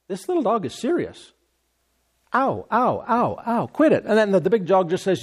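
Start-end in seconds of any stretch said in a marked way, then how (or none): 0.1-4.0 yelping big dog. Retold or imitated. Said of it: "it dawns on them".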